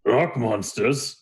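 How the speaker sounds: slow, questioning Minotaur; drawn-out, mildly puzzled query; quizzical. Acted. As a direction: repeat it slowly as a puzzled question. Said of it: "looks at you quizzically and he goes".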